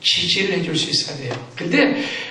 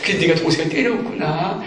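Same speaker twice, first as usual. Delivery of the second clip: gentle soothing mother; 3 semitones lower than usual. Shown as a demonstration. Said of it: "그걸 읽어주는 거예요".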